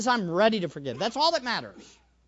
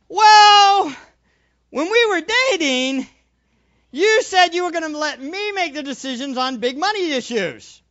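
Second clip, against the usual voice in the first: husband raising his voice at his wife in an argument; raised voice; 6 semitones higher, 8 dB louder than usual. Retold or imitated. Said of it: "You then raise your voice".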